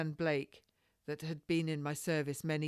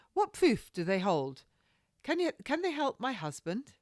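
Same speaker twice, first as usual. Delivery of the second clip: anxious plea; 7 semitones higher, 4 dB louder than usual. Acted. Lady anxious for husband.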